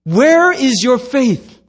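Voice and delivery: slow, stretched-out scolding question; acted reproachful challenge; rebuke. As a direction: demand it word by word. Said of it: "on a little rebuking spree".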